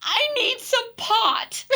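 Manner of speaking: very high, very slow whiny plea; comic self quote. Retold or imitated. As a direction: whine it out for laughs. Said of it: "I just go".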